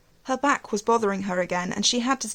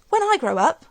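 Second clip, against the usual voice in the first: put-on child's voice; 8 semitones higher, 7 dB louder than usual. A narrator's reading. Child Alice speaks to aunt.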